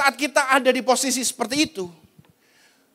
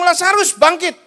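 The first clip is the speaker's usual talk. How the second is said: high, raised call of command; 5 semitones higher, 4 dB louder than usual. Acted. Jesus calls Lazarus up from death, commanding call. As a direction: call the dead man out with authority.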